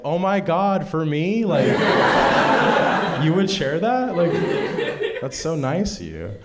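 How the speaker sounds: high, gushing naive delight; excited. Retold or imitated. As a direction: gush like a clueless kid. Naive gushing over brownie.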